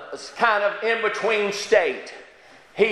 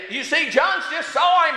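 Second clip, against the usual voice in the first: preaching; 7 semitones higher than usual. Acted. Preaching burst.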